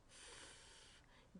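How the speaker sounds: "f" as a long sustained friction sound; PH digraph sound. Shown as a demonstration. Teacher showing what P H says, "f" as one long F sound. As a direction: hold "f" alone, not the letter name. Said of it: "P H says".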